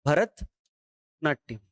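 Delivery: "भरतनाट्यम" slowly, syllable by syllable; teacher's slow dictation of "भरतनाट्यम"; drawn-out repeat. Shown as a demonstration. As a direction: spell out "भरतनाट्यम" for the class, very slow. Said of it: "इसका मतलब है भरतनाट्यम".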